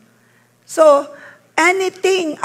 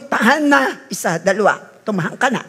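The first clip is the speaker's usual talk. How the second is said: stern countdown; 4 semitones lower than usual. Retold or imitated. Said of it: "Hindi yung".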